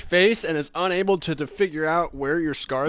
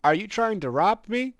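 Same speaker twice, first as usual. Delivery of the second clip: higher, worried question rising at the end; nervous question; 5 semitones higher than usual. Acted. Barkeep nervously asking the strangers, high worried rise. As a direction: ask it like a jumpy barkeep afraid of a robbery.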